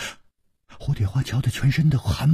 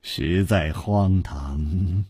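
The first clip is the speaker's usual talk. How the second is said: apologetic; 6 semitones lower, much slower than usual. Acted. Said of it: "大笑着说".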